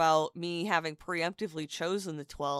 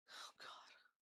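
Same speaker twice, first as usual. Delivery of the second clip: whisper; 25 dB quieter than usual. Real, not acted. Embarrassed aside.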